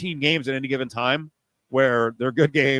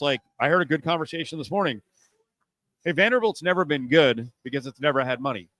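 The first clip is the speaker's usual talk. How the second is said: usual speaking voice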